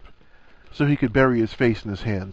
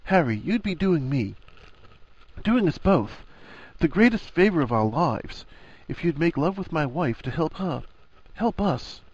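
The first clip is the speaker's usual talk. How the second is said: higher, gentle pleading voice; 6 semitones higher than usual. A narrator's reading. Husband asking his best friend for a huge favor, very gentle. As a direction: ask tenderly, pausing between phrases. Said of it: "was very gentle".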